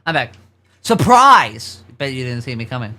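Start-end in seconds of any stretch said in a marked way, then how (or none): 0.8-1.8 playful surprise. Pretend. Streamer pops back on stream.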